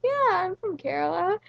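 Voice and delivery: mock insistent yes, I'm from Kerala; insistent repeat. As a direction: say it again, a bit indignant, pitch up. Repeats answer to doubting driver.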